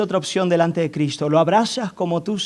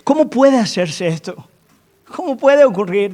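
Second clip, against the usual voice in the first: higher, searching voice of a puzzled Nicodemus; pleading Nicodemus; 5 semitones higher than usual. Acted. Pastor voicing Nicodemus pressing Jesus, pleading. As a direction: beg Jesus for an answer, half-exasperated.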